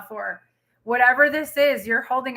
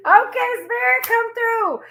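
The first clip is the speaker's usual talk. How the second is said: high, raised call; 11 semitones higher, 4 dB louder than usual. Real, not acted. Tarot reader calling on Spirit after a laugh, high call. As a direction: sing out a high, loud summons.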